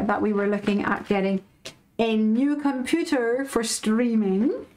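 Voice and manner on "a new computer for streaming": 1 slow teasing build. Real, not acted. Teasing the big news.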